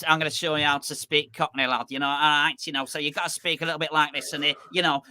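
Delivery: put-on Bolton accent teaching Cockney; Bolton accent coach. Coach from Bolton showing how to speak Cockney, mock Bolton accent. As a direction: imitate a northern coach from Bolton. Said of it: "accent coach was somebody from Bolton".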